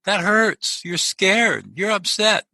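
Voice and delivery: put-on high, gentle comforting voice for a small child; tender parent calming a child with a scraped knee; soothing parent. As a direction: coo it to a hurt toddler. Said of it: "say something like".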